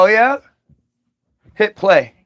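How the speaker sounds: loud smug threat; loud smug 'oh yeah'; menacing. Pretend. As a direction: call his bluff, coolly. Lawyers menacing reply.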